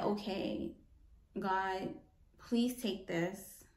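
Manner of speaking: soft, half-whispered plea, slow at the end; hushed prayer. Retold or imitated. Speaker quoting her own prayer to God, hushed and soft. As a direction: pray it quietly, almost under the breath.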